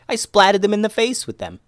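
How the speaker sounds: put-on high-pitched child's boast; gleeful boy. Boy tells how he pied the ninjas, gleeful. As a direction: brag in a high little-boy voice.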